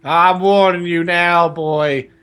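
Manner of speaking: Uncle Vernon. Acted. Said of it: "Uncle Vernon had taken Harry aside".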